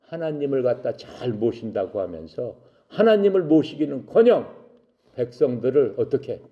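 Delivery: acted scolding, pitch rising midway; mild mock telling-off; rebuking. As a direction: rebuke them with mounting force. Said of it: "욕을 한 거야".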